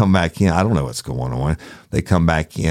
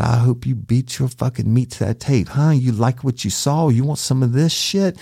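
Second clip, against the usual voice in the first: high, taunting imitation of an irate wife; mock angry woman; 11 semitones higher than usual. Wife taunting the detective over the tape, mock angry high voice. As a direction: mimic her tirade, pitched way up.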